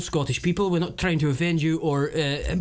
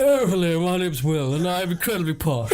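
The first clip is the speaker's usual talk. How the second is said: lightly hammed-up upper-class drone; posh impression with jaded ennui; posh Will. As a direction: play a bored posh globetrotter. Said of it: "answer the question as me".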